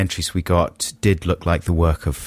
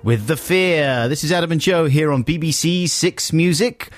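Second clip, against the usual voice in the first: raised, slowed-down DJ welcome; radio presenter link; 2 semitones higher than usual. Acted. Radio host back on air greeting Saturday morning listeners, presenter voice.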